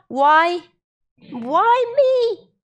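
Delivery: self-pitying high lament; why me. Retold or imitated. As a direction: wail it like a victim. Voicing the self-pitying question.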